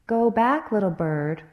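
grave, stately eagle warning; a solemn eagle warning the parrot; solemn and majestic. Acted. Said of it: "said the eagle in a solemn and majestic voice".

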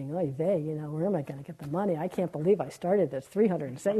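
put-on kvetching New York Jewish accent, fast; fretting in a Yiddish-tinged New York accent. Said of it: "she wouldn't have a New York accent".

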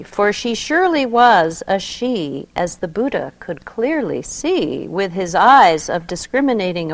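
expressive poetry reading; poem reading. Acted. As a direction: read it like a sacred story. Reads a mystical poem aloud.

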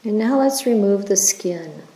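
unhurried, even-toned meditation leader; guided meditation. Acted. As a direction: guide listeners gently through the body, leaving space after each phrase.

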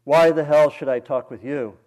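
loud belligerent roar. Acted. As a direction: shout it over the train noise. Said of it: "roared above the clacking wheels".

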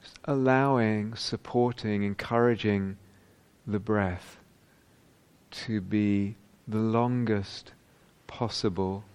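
measured meditation voice, pausing between phrases; guided meditation. Real, not acted. Teacher inviting meditators to lengthen the breath, calm and measured. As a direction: invite them gently into it, phrase by phrase.

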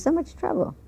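laughing. Real, not acted. Quotes doctor, laughing.

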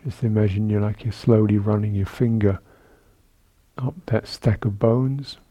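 calm, measured meditation guidance with long pauses; guided meditation. Real, not acted. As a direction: guide sitters gently through the body, leaving space between phrases. Leads a seated body-awareness meditation.

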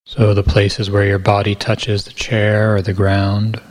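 calm, unhurried meditation guidance with long pauses; guided meditation. Real, not acted. Teacher guiding retreatants to feel body weight and gravity, guided meditation. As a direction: ease listeners gently into the body, pausing between phrases.

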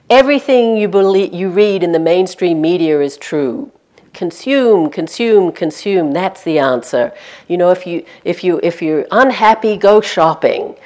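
loud, blaring announcer barking orders at passers-by; mock propaganda through a megaphone; Big Brother megaphone voice. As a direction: preach consumerism like a state loudspeaker, slowing on "go shopping". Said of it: "being the voice of Big Brother".

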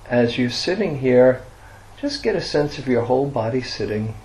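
guided meditation. Real, not acted. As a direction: guide listeners gently into resting, leaving long silences.

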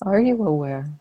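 unhurried meditation guidance with long silences; guided meditation. Acted. Teacher leading students into relaxed awareness, guided meditation. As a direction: guide them gently, phrase by phrase, leaving long pauses.

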